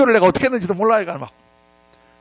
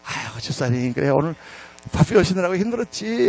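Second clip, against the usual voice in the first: affectionate, retold; 2 semitones lower, 3 dB quieter than usual. Pastor greeting deacon with loving eyes, mildly affectionate tone. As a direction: greet him fondly, as if acting it out. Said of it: "더 사랑스러운 눈으로".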